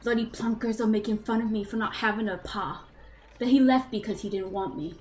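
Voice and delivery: put-on a light British accent as a sulky boy; British accent diary. Game master reads Zeke's childhood diary to players, light British accent. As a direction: read the boy's diary in a mild British accent. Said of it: "we'll try the accent again".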